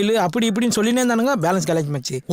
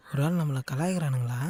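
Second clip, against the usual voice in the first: low, soft aside to himself; suspicious aside; 7 semitones lower, 10 dB quieter than usual. Acted. Wondering to himself if he is being pranked, low and quiet. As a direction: drop right down, away from the phone.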